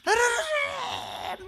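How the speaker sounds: rapid babbling syllables, half laughing; praying in tongues. Retold or imitated. Pastor imitating a believer praying in tongues, mock tearful babble. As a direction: rattle off tongues while pretending to weep. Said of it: "막 울면서".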